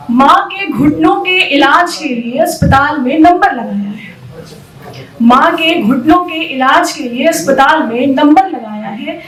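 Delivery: measured, emphatic stage recitation; spoken-word performance with lilting phrases; poetic monologue. Acted. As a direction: recite it as verse, letting each line land.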